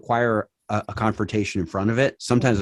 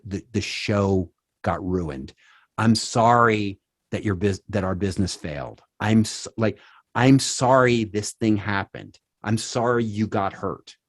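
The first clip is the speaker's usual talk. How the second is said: sincere apology; slower than usual. Shown as a demonstration. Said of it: "Say what you're sorry for".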